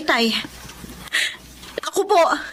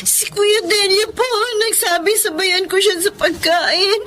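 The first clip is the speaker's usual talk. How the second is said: crying plea. Acted. Accused maid pleads crying.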